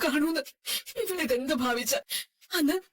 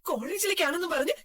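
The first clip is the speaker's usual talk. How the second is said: crying while accusing her son; tearful reproach. Acted. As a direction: sob out the accusation. Mother scolds son over drinking. (കരഞ്ഞുകൊണ്ടുള്ള കുറ്റപ്പെടുത്തൽ)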